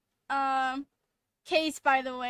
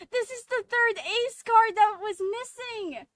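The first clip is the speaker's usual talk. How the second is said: higher, louder, slow and emphatic; excited discovery; 8 semitones higher, 5 dB louder, slower than usual. Real, not acted. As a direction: announce the find, still buzzing. Streamer's realization continues.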